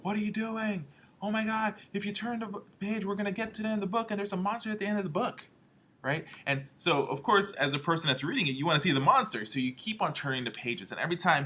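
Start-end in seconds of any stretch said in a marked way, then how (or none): 0.0-5.5 high, fast, frantic puppet voice; Grover panicking. Retold or imitated. Grover pleading with the reader, high and fast. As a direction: squeal it out like a worried little muppet. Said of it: "Grover starts getting mad".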